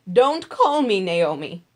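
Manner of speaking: loud, slow, grieving protest; bitter widow. Acted. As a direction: cry out the bitterness of her loss. Naomi's bitter return.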